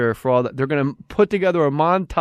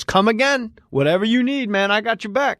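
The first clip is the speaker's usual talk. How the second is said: higher, friendly Home Depot guy; helpful store clerk; 6 semitones higher than usual. Retold or imitated. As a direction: play the eager helpful employee. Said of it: "He goes".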